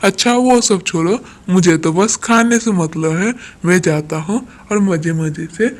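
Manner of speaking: loud, swaggering crow voice, the last bit slowed; greedy crow. Acted. Greedy Kalu crow, loud and boastful, heading to eat. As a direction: boast like a bully crow who only cares about eating.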